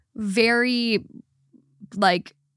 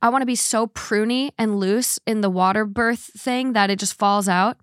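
eager. Acted. Acts out own eager reaction to options.

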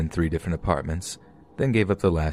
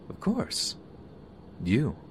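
creepy whisper; 8 semitones higher, 7 dB quieter, slower than usual. Retold or imitated. Creepy man's whispered reply.

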